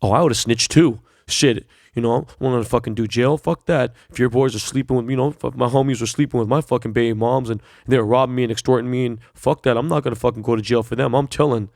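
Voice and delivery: lightly put-on voice of a celebrity defending snitching; a hint of a smug celebrity, sneering imitation; mocking celebrities. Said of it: "You got celebrities saying".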